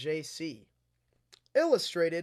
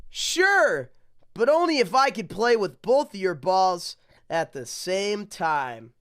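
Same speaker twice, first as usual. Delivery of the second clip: Sally's reply; 4 semitones higher, 8 dB louder than usual. Acted. Toy voicing Sally's reply.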